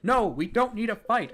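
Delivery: mock Steven plea. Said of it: "where he's like".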